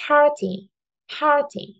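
"party" with a high, strong "par"; stress on first syllable. Shown as a demonstration. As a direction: pitch up on "par" in "party", let "ty" fall light. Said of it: "Trọng âm rơi vào âm tiết số nhất". (nhấn cao âm đầu "par" trong "party")

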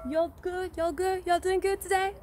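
playful put-on Southern American accent; light mock Southern accent, friendly and chatty. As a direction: drawl the y'all like a Southern belle checking in. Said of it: "I have multiple accents today".

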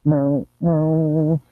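playful meowing like a kitten; cat meows. Pretend. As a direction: meow over and over like a cat.

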